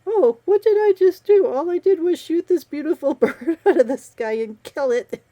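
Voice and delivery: loud, high mock bewilderment; exaggerated "who, me?" outcry; mock clueless protest. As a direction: play a hero protesting his innocence, hammed-up. Mocks the hero's clueless protest.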